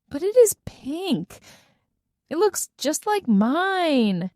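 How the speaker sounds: high, insistent protest. A narrator's reading. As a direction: push back, voice up high. Girl protests to her dad.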